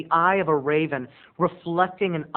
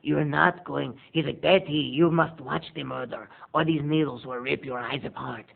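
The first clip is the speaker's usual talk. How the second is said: lightly voiced killer; 3 semitones lower than usual. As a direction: coax her like a gloved killer. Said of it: "you hear the killer's voice going".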